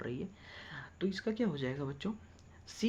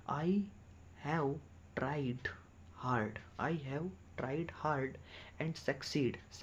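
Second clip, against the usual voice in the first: slow dictation; 3 dB quieter, much slower than usual. Shown as a demonstration. Teacher dictates slowly.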